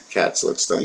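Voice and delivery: a conspiratorial whisper aside. Shown as a demonstration. To viewers about the cat, whispered repeat. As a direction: whisper it, barely voiced.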